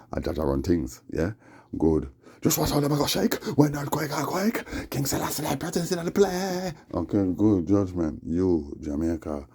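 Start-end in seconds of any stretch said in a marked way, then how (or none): 2.4-6.7 prophet voice. Acted. High prophetic declaiming.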